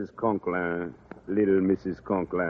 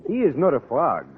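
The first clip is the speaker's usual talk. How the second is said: put-on thick French accent, a charming Frenchman; French accent, courtly and flattering. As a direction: play the suave Parisian teacher, French accent.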